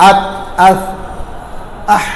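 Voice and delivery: আত, আস, আহ each ending on a bare consonant; no-bounce endings. Shown as a demonstration. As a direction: stop on the last sound of আত, আস, আহ with no vowel after. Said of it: "গিয়া আর ফেরত আসবে না".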